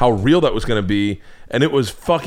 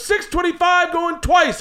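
slow, much higher going-once call; auctioneer call; slower than usual. Retold or imitated. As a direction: draw out the tension. Auctioneer calling twice.

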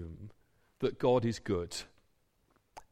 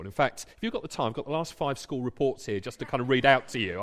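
mock bragging; 2 semitones lower, faster than usual. Imagined boaster bragging to friend.

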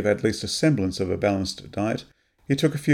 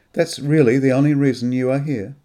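disbelief; 4 semitones higher, 6 dB louder than usual. Acted. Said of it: "disbelief still in her voice".

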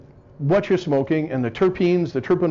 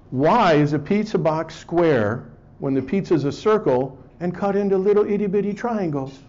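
officer's trick question; 4 semitones higher than usual. Retold or imitated. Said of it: "the officer says".

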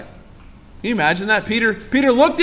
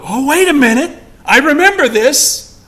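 louder, higher sudden realisation; dawning recognition; 5 semitones higher, 5 dB louder than usual. Acted. Disciples recognising the miracle, surprised realisation. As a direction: catch it like déjà vu. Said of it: "deja vu".

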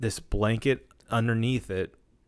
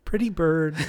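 parrot voice; 6 semitones higher than usual. Retold or imitated. Quoting the dead bird gag.

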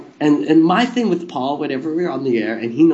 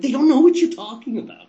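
high-pitched imitation of exasperation; mock mad; 12 semitones higher than usual. Co-host objecting to obscure references, high mock-mad voice. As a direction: complain in a much higher mock-annoyed voice. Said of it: "he'd always get mad".

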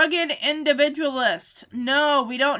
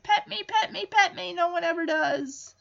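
needy Odie; 5 semitones higher than usual. Retold or imitated. Voicing Odie begging.

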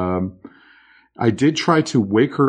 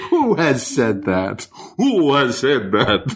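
mock indignation; slower than usual. Mock outrage at listener criticism.

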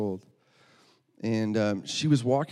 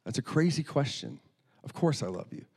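mock puzzled protest; perplexed; 3 semitones higher than usual. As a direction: voice a girl mildly baffled by the question. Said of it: "very perplexed. She's like".

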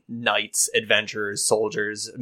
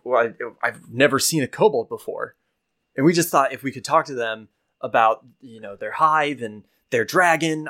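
a lightly raised eager youth; lightly voiced young adventurer; 2 semitones higher than usual. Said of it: "He goes".

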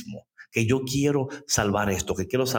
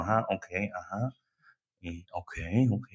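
low, soft murmured agreement; just hum along, unhurried; patient listening; 5 semitones lower, 7 dB quieter than usual. Retold or imitated. God voiced listening patiently.

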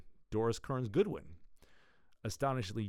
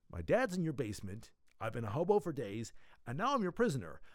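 huffy. Acted. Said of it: "Electro huffed".

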